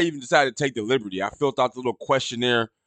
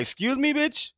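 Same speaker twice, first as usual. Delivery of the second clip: indignant retort; 12 semitones higher, 5 dB quieter than usual. Retold or imitated. Imagined indignant comeback to nurse.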